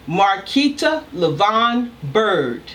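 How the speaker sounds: slow, each syllable of "Marquita Levon Bird" spelled out; a mild imitation of an upset mother; angry mother calling name. Daughter recalling her mother's scolding, slow and deliberate. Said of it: "in a loud voice, very slow".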